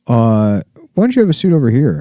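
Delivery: brisk, cornering cop; a hint of a smug officer. Police officer at the sting.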